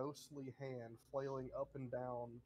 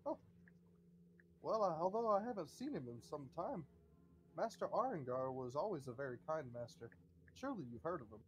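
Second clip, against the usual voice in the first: fond butler; 3 semitones higher, 3 dB louder, faster than usual. Acted. Butler speaks of his master.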